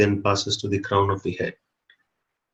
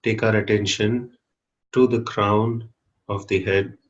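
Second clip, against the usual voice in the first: guided meditation. Real, not acted. Teacher leading a group to watch their breathing, calm guided meditation. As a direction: guide them inward calmly, with long pauses.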